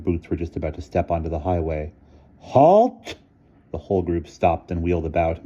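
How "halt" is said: sharp high yell of halt; a woman's sudden shout across the orchard; loud shout. A narrator's reading. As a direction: bark the order to stop. Miss Scrimmage stops the boys.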